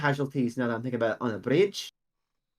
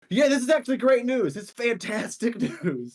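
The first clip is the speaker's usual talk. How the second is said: mock enthusiasm; 8 semitones higher than usual. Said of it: "they're like".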